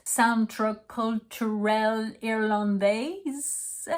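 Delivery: very slow, halting misreading of "Centre Culturel Irlandais"; pronúncia errada. Shown as a demonstration. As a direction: sound out "Centre Culturel Irlandais", ending on a wrong S. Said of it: "Here is how to pronounce".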